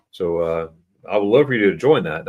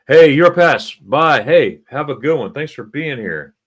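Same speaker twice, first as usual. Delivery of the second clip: cheery goodbye; 5 semitones higher, 8 dB louder than usual. Real, not acted. Waving off a viewer.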